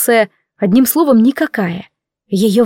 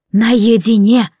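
slow, hollow voice from the grave; sepulchral voice; 3 dB louder, much slower than usual. Acted. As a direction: draw it out like a ghost's verdict. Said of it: "припечатала загробным голосом".

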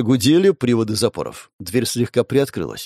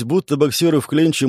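ordinary delivery

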